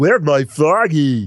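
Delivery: voice sounding as stupid as possible. Showing the voice he was asked to give the character, stupid Big the Cat voice. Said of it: "Or something stupid like this".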